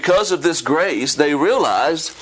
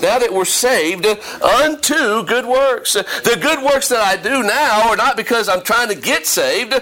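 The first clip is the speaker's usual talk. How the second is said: emphatic preaching, rising higher as it builds; fervent preaching; 5 semitones higher than usual. Acted. Preacher telling the church why they serve, fervent preaching.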